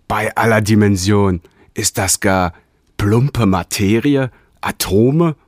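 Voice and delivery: slow, rising bafflement; wondering. Acted. Realigator discovers his body of atoms, baffled. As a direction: marvel at the clumsy matter. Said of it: "wunderte sich der Realigator".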